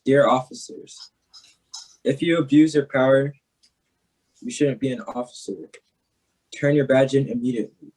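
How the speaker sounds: measured reading with pauses between lines; poem recitation. Acted. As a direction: deliver it as an open letter in verse. Reads second poem aloud.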